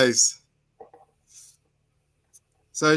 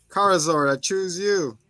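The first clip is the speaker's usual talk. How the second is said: higher, calling out a Pokemon like a trainer; 5 semitones higher than usual. Retold or imitated. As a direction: throw the line out like a trainer summoning Charizard.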